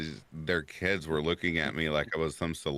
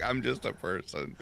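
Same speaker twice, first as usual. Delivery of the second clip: laughing; 6 semitones higher than usual. Retold or imitated. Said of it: "And I'm like".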